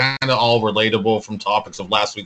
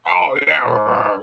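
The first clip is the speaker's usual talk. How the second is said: growly commentator voice; 2 semitones higher, 5 dB louder than usual. Retold or imitated. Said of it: "that growly commentator voice".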